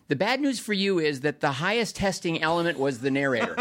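quoting Mitch while laughing; laughing through it. Retold or imitated. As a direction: hold back a laugh as you quote. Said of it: "And I said".

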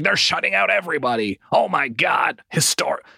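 hammed-up awe at a hot start; mock freak-out. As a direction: imitate overexcited fans freaking out. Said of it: "people were freaking out".

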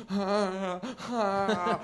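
high mock cry of fear; acted-out wordless whimper; mock frightened wail. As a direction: cry out in helpless comic fright. Acting out his fear of the bat.

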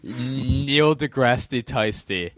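laughing. Shown as a demonstration. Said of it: "No, Neil deGrasse Tasty".

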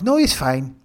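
put-on polite refusal in a Hispanic accent. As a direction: passenger Evelyn, lightly voiced Hispanic accent. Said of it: "my voices of Mario, Nacho, and Evelyn".

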